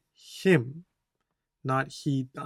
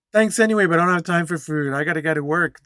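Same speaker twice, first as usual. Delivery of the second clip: louder, rushed refusal as if late for work; hurried brush-off; 2 semitones higher, 8 dB louder, faster than usual. Acted. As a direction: brush them off quickly and loudly. Reads stressed woman refusing food, hurrying.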